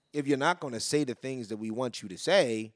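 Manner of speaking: unvoiced whisper, like a secret. Real, not acted. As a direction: lean in and whisper it. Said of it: "drops to a whisper".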